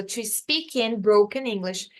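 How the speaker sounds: slow "to speak in broken English" as one linked run; no pause. Shown as a demonstration. Teacher models the full phrase, linked without pauses. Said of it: "sem pausa".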